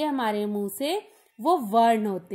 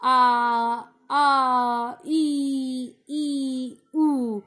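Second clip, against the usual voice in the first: put-on drawn-out आ, ई and ऊ wails, like a baby crying; imitating crying baby; much slower than usual. Teacher acting the pictured crying baby for the class, as mild mock wails. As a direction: whimper the vowels the way a small child cries. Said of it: "ये बच्चा रो रहा है।".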